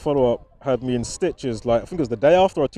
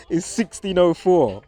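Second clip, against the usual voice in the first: laughing; 4 semitones higher, slower than usual. Real, not acted. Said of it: "Why am I already laughing?".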